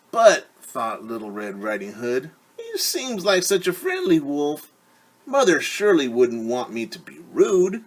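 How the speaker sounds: put-on a trusting little girl thinking aloud; Little Red Riding Hood. Red voiced by narrator.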